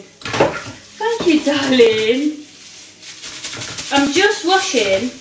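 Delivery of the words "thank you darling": her signature darling. Real, not acted. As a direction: lean into the pet name the viewers love. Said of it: "I love the way you say darling".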